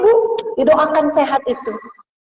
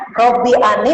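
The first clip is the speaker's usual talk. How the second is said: dictating slowly; 3 dB louder than usual. Shown as a demonstration. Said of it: "mau dicatat".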